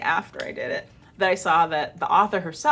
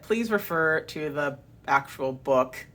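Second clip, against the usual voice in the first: slow, pointed and curt; 4 semitones lower than usual. Shown as a demonstration. Telling the rights holder off, slow and pointed. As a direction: spell it out slowly, with an edge. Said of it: "I didn't say it like that".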